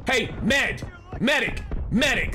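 calling out for a medic; man down shout. Real, not acted. Calls for medic in game.

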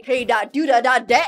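lightly sung imitation of the monster; playful copy of the song line; mock greeting voice. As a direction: mimic the silly lyric, bouncy. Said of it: "'cause it's like".

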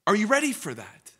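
fervent preacher shout; loud challenge. Acted. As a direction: throw the question hard at them. Repeated question, louder and higher.

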